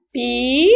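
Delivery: "pi" held long on its own; single syllable. Shown as a demonstration. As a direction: sound out "pi" as a separate syllable, rising. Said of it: "outra sílaba".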